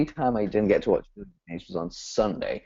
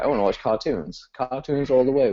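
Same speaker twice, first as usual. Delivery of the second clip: mock-excited little kid, building higher; retold childish enthusiasm, mildly hammed-up; eager child; 5 semitones higher than usual. Five-year-old self wanting cartoons over sister's shows, mock excitement.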